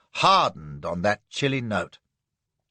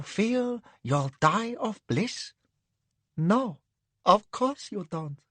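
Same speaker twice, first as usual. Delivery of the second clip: dreamy concubine; 4 semitones higher than usual. Acted. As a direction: savour each word in lazy rapture. Madam speaks dreamily.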